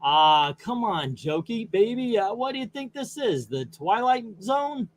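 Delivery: a hint of a smooth talk-show sidekick; Paul Schaefer voice. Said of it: "my best Paul Schaefer".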